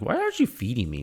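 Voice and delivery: pleading, whiny, whimpering dog voice. Voicing a hungry dog that wants to be fed: imitating a whimpering dog. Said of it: "She's whimpering at me like".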